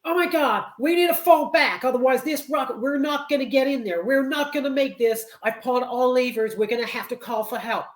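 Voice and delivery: high, hammed-up panic over the engines; mock Halle Berry in a flap; panicked astronaut. Halle Berry's character panicking in the shuttle, hammed-up and high. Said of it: "she's like".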